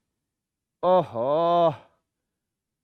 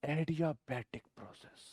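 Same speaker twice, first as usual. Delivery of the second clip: soft naming; 5 semitones lower, 16 dB quieter than usual. Shown as a demonstration. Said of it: "क्या बोलूंगा मैं?".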